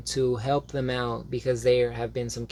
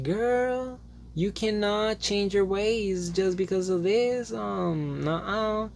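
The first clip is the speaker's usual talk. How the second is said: much higher, slow, sassy scolding; sassy Gabriel; 8 semitones higher, slower than usual. Retold or imitated. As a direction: wag a finger at her friend. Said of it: "Gabriel's like".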